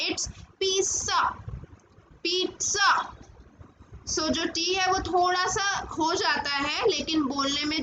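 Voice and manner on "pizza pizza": pizza said as "peet-sa", with a ts sound; correct pronunciation. Shown as a demonstration. Teacher drilling the class: pizza as "peet-sa". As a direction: say pizza with a ts, not a z. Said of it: "pronunciation लिखी हुई देख सकते हैं".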